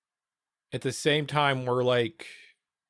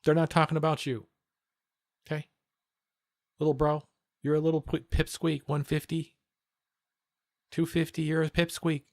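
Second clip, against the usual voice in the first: retold taunting; 4 semitones higher than usual. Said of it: "I'm like".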